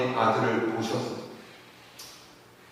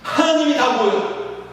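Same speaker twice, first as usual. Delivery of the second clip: put-on high anguished cry of a grieving boy, fading by the last question; a boy's broken wail at his father's death; wailing outcry; 7 semitones higher than usual. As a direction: cry out to God in despair, then sink. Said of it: "소년이 울부짖으면서 소리쳤어요".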